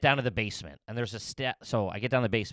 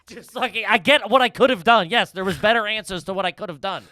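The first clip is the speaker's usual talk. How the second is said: worked-up; 9 semitones higher, 9 dB louder than usual. Real, not acted. Panicked retelling of the mess.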